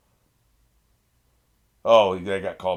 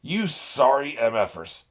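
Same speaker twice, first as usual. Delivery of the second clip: slow insult with M F spelled out; "You sorry M F ers" spelled as letters, slow and steady; censored insult; 3 semitones higher, slower than usual. Real, not acted. Viewer cursing at the villains but spelling out M F. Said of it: "remember to bleep this out".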